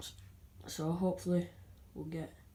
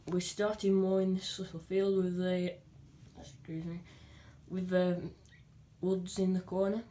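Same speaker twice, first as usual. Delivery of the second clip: with hiccups. Real, not acted. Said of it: "Sorry about my hiccups".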